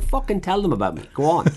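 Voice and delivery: mock-furious chef calling her bluff; defiant retort. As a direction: dare her to go ahead. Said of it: "I was like".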